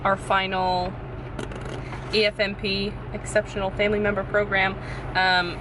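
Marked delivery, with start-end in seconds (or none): 0.0-4.0 rain on car roof. Real, not acted. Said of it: "I apologize for the sound. I'm sitting in the car and it is pouring down rain".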